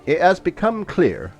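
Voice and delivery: put-on courtly Basque accent, grave and deliberate. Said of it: "did you like my authentic Basque accent".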